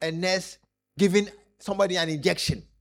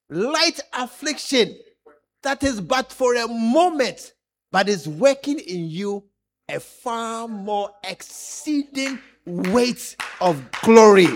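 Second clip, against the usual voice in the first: scripture reading; slower than usual. Real, not acted. Preacher reciting the verse to the church, slow and solemn. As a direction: read the verse slowly and swell on glory.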